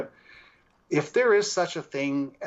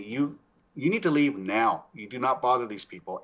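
retold firm order, spaced out word by word; forceful. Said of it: "it was almost like we were forceful".

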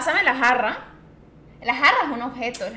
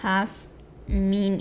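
Jazmín drawn out, stressing the final í; 5 semitones lower, 3 dB quieter than usual. Shown as a demonstration. Player insists on how Jazmín is written, stressing the í. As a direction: say Jazmín slowly, accent on the í. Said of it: "Y con acento en la I".

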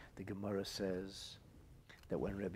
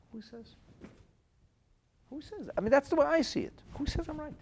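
much higher, loud rhetorical cry; fiery challenge; 11 dB louder than usual. Real, not acted. Rabbi challenges listeners' certainty, shouting high. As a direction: hammer the question home.

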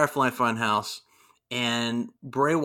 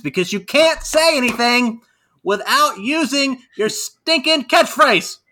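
high, loud, slow exasperated complaint; fed-up mock outrage; 10 semitones higher, 5 dB louder than usual. Real, not acted. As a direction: rant at the catchphrase. Exasperated rant at catchphrase.

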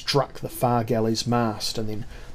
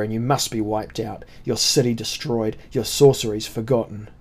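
barbarian captain. Acted.

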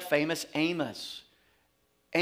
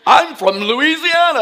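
louder Louisiana twang, laughing; 9 semitones higher, 11 dB louder than usual. Retold or imitated. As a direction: Louisiana accent on full display for city folk. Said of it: "it's just this twang".

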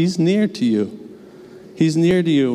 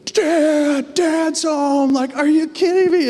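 put-on high, squealing little-girl voice, much higher; excited toddler daughter; slower than usual. Two-year-old daughter greeting dad at the door, thrilled high squeal. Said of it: "she's like".

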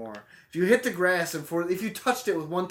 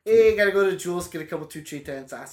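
a lightly put-on Boston accent, joking; mock Boston accent. Gaming friend hams up a Boston accent in mock Boston. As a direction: riff on the words in a half-hearted Boston accent. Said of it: "I don't know where his accent originates".

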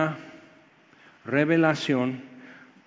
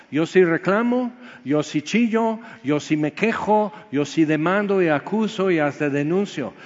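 a touch of a stubborn complainer; defiant admission. Retold or imitated. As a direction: hit each sí like a confession you're not ashamed of. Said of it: "tienes que decir".

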